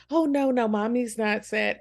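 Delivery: mock-breezy cover-up, mommy style; hammed-up reassuring lie; fake cheerful denial. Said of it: "You go".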